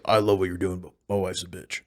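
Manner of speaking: lightly voiced confiding husband; a low-key aside from a fan's husband; admiring husband. Husband confiding to the Trump impersonator, understated aside. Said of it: "her husband loved Trump".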